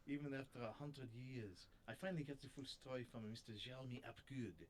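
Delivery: attempted French accent, lightly done; a shaky go at a French detective; amateur French accent, mildly put on. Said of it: "I keep lapsing into German".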